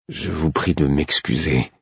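courteous and unhurried; polite. Acted. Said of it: "dis-je poliment". (ton poli et lent)

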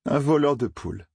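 voleur de poules thrown out high with a scoffing fall on voleur; a mock echo of a silly theory; scornful repeat. Matt scoffing at Dave's chicken thief, voleur said high and dropping.

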